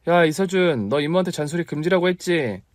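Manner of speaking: high, playful telling-off; mock scolding. Aunt playfully scolds her nagging nephew, high. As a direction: push back half-teasing.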